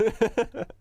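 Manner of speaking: short high laugh; quick amused giggle. Real, not acted. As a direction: burst into a quick loud chuckle. Amused by the odd button.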